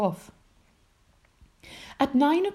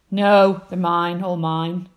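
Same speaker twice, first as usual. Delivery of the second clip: screaming; 9 dB louder, slower than usual. Acted. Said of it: "screamed the bad-tempered ladybird".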